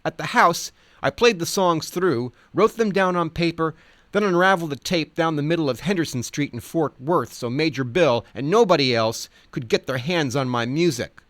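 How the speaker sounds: a hint of the Ledge boasting; quoting the Ledge. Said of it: "he recalled".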